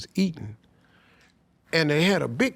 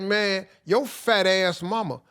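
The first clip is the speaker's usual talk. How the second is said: drawn out, slowed mocking jab; slow taunting insult; 4 semitones higher, slower than usual. Retelling the stranger's taunt to his cohosts, slow mockery. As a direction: stretch the insult out slowly. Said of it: "'Cause he said".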